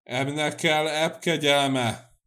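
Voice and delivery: loud, slow, scornful outburst; angry scorn. A narrator's reading. Cecei rejects the king's favour, angry scorn.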